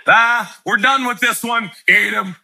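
fed-up parent joking about animals; mock exasperated shout. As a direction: snap and give up on them. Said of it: "you're like".

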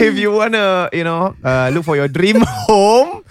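slow, upbeat sponsor plug; ad read. Acted. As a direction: pitch the sponsor like a radio ad. Reading the sponsor ad.

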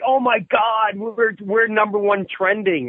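high-pitched excited retelling; podcast partner's excitement. Retold or imitated. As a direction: imitate a thrilled colleague, voice jumping up. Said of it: "Mike Tichy was excited".

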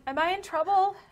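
high pixie voice. Acted.

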